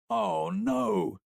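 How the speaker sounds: high, breaking voice of despair. A narrator's reading. Boy realizing his friend is dead, despairing. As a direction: let it crack upward in horror. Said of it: "he repeated".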